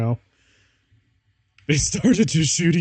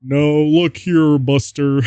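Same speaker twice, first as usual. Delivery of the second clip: hammed-up character voice; 2 semitones higher, 6 dB louder, slower than usual. Character voice repeated as bit.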